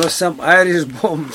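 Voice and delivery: slow, deliberate repeat so it's understood. Real, not acted. Repeating slowly after the woman asks what.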